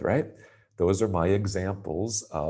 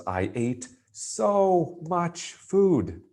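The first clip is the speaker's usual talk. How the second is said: much higher, slow, so stretched long; so much food, slow and lifted; drawn-out so; 10 semitones higher, much slower than usual. Shown as a demonstration. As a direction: drag out so as if stuffed. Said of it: "what's that feeling if you say".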